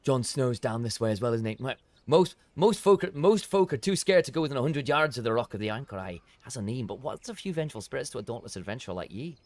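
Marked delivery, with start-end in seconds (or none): 2.1-9.4 put-on villager warning with a creeping Scottish accent; unwanted Scottish accent. Voice actor warning the adventurer, drifting into Scottish. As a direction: warn the adventurer in an accidental Scottish lilt. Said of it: "See, I'm going towards a Scottish accent".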